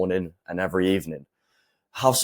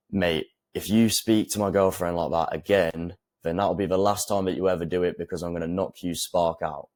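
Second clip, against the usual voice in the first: steady, measured threat; calm sinister. Shown as a demonstration. Coach showing how to warn a disrespectful man, calm and sinister. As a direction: keep it cold and controlled. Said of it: "saying it in a slow, sinister way".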